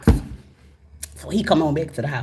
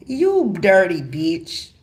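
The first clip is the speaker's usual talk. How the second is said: slow, deliberate insult; slow menace; much slower than usual. Retold or imitated. Wife confronting her cheating husband, slow and cold. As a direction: spit each word out slowly.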